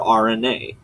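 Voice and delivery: R N A said as letter names; spelled-out pronunciation. Retold or imitated. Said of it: "Like you're spelling out the letters".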